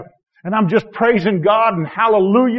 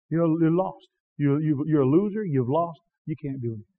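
inner accusing voice; 2 semitones lower, 7 dB quieter than usual. Retold or imitated. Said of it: "it just came over me".

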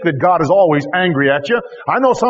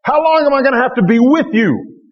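frustrated; 4 semitones higher than usual. Retold or imitated. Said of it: "the Lord looks frustrated here".

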